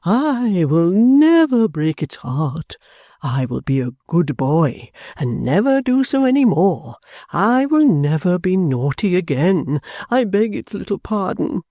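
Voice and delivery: put-on high, slow baby-talk pleading; Mantalini grovelling. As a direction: beg like a naughty child. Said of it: "said Mister Mantalini".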